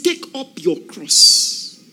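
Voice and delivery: proclaiming. Acted. Preacher proclaims scripture.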